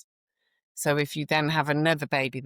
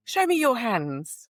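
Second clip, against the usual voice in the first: higher, slow commanding demand; stern demand; 9 semitones higher, 3 dB louder, slower than usual. Retold or imitated. Nurse retelling confronting a doctor, stern slow demand. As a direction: order him, each word firm. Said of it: "And I went".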